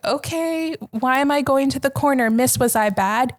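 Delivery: a hint of a puzzled child; three-year-old self. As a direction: imitate a little kid asking timidly. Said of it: "And I was three".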